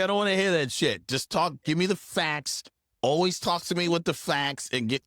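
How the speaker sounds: high, insistent demand. Retold or imitated. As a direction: push for straight answers. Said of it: "I was like".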